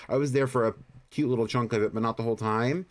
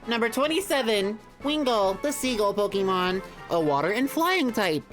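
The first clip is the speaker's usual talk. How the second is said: Pokedex voice; 5 semitones higher than usual. Pretend. Reading Pokedex entry aloud.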